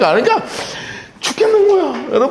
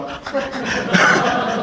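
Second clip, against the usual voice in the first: breathy laugh; 6 dB quieter than usual. Real, not acted. Laugh after own joke.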